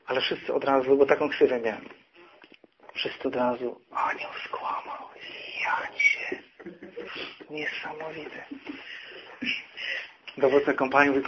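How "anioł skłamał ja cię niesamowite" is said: slow, hushed whisper of disbelief; whispered mock amazement; awed whisper. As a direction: imitate soldiers whispering a scandal down the rank. Soldiers murmur in astonishment.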